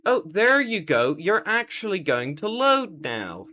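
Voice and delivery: relieved. Real, not acted. It finally loads.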